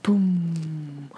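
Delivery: imitated bass drum hit; one long, humming low boom; deep drum boom. Recapping the drama's sound effect, a deep drawn-out boom. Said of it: "it was, like, a really deep".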